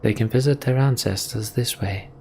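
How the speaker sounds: lightly voiced character recounting old lore; storytelling elder lore. Voices Alfred's quoted speech.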